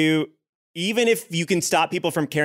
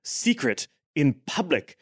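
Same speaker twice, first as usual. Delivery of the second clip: offended duke. Acted. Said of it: "he says, turning to Elizabeth".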